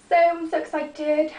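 excited, with an accidental Welsh lilt; Welsh-sounding. Real, not acted. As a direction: let a Welsh accent slip out in excitement. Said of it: "I sounded really Welsh then".

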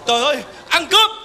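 fast, high cry of robbery; mock panic, yelling thief; panicked alarm. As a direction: rattle off the alarm in a fluster.

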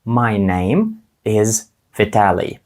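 slow, careful English "My name is Vitaly"; English model phrase. Shown as a demonstration. Teacher models the phrase slowly for learners to repeat. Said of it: "я скажу".

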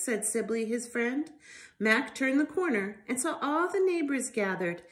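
lively storybook reading voice; reading to children. Acted. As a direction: read it out to little ones with life. Reads picture book to children.

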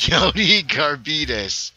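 drawn out, laughing loud through the name. Real, not acted. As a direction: crack up while repeating it. Repeats the nickname laughing.

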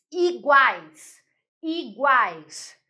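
"Iguais" loudly split into i, guais; tritongo demonstration. Shown as a demonstration. Teacher showing the triphthong, "Iguais" loud as i-guais. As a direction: say "Iguais" in two emphatic beats, guais unbroken. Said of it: "Olha o tritongo aqui".

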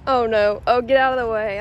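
loud sudden warning; alarmed call. Real, not acted. Mom calling out to Sam near the alpaca, loud and alarmed. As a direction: shout a quick warning across the pen.

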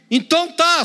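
mock giving in to the crowd; exasperated concession. Preacher voices Pilate giving in to the crowd, high exasperated retort.

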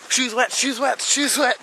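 high, whiny squeal; dismayed squeal. Real, not acted. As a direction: wail about soaked shoes. Just fell into snow.

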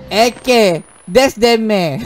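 hammed-up Kelantanese "ey" endings; English bent into Kelantan dialect; Kelantan accent. Shown as a demonstration.

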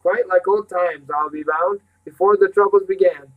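lifted, lilting fond reminiscence; sentimental. A narrator's reading. Housekeeper recalling old times to the children, mildly sentimental. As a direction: reminisce with mild gush. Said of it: "Miss Polk said sentimentally".

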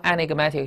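enigmatic with MAT stressed; shifted stress. Shown as a demonstration. Teacher showing the stress has moved, enigmatic stressed on MAT. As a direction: move the weight onto MAT in enigmatic. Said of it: "这个重音就挪了".

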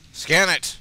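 sharp shouted order; loud command. Real, not acted. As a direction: bark it at the screen. Barking an order at the game.

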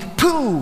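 high "pu" of a smack; imitated blow. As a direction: mimic the sound of a hit. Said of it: "și am auzit".

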